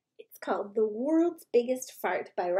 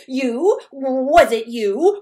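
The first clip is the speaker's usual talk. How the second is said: disbelief; 11 dB louder, slower than usual. Acted. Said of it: "all repeated in disbelief".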